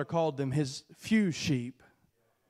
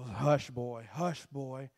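hushing; 6 semitones lower, 7 dB quieter, slower than usual. Acted. People shushing David.

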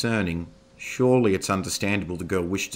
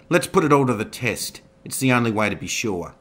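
taunting; 5 semitones higher, 7 dB louder than usual. Acted. Zoe taunts while stabbing Roy.

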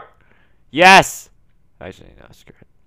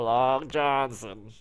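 stretched slow x0.4 delivery; a touch of the talking cat meme; slow drawn-out meme; much slower than usual. Retold or imitated. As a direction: drag every syllable.

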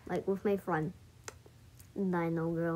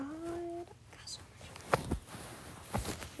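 whisper; 6 semitones higher, 13 dB quieter than usual. Real, not acted. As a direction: whisper it like a secret treasure. Gleeful over money.

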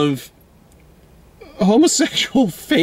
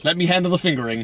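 quoted through laughter; 4 dB quieter, faster than usual. Retold or imitated. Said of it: "no, it's like".

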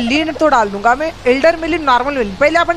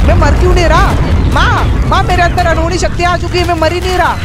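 loud, raised voice in disbelief; amazed outcry; 4 semitones higher, 4 dB louder than usual. Real, not acted. Gamer surviving a deadly attack, loud amazed cries. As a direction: cry out, amazed to be alive.

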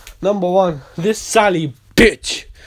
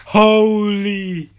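preaching; slower than usual. Acted. Preaches as God's presence.

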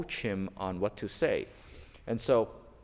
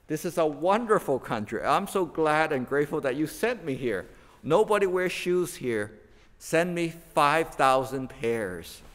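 excited; 5 semitones higher, 4 dB louder than usual. Retold or imitated. Eager salesman writes home.

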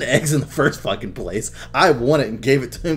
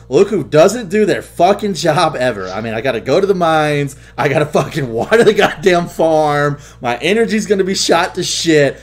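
louder, mock-angry complaint; mock scolding rant; 5 semitones higher, 7 dB louder than usual. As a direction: scold the friend who skipped chores. Retold scolding friend over farm.

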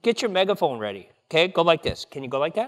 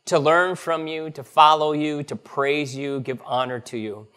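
prayer. Acted. Pastor leads evening prayer.

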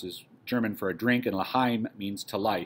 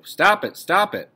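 loud, higher-pitched protest; exasperated outburst; 8 semitones higher, 8 dB louder, slower than usual. Acted. Margot to Dussel as he counts out potatoes, exasperated shout. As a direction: cry out to make the counting stop.

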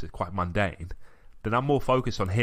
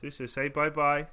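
higher-pitched talk to a little one; 6 semitones higher than usual. Real, not acted. Father asking his child to sign off, coaxing.

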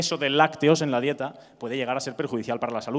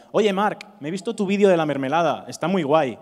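lightly acted, higher and louder hail; acquaintance's greeting; 4 semitones higher, 5 dB louder than usual. Acquaintance stopping the comedian in the street, lightly imitated hail. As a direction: imitate an enthusiastic acquaintance calling over. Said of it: "un conocido por la calle y me decía".

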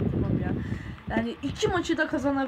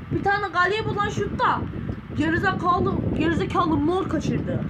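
raging at teammate; 5 semitones higher than usual. Real, not acted. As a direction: rant at the player who missed.

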